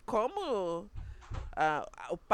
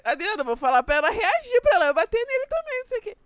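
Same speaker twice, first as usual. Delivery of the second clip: mock indignant protest; 11 semitones higher, 7 dB louder, faster than usual. Retelling her protest to Adriana.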